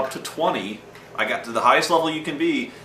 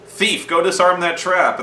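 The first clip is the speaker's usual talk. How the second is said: mock slow bossy order; 7 semitones higher, 5 dB louder, slower than usual.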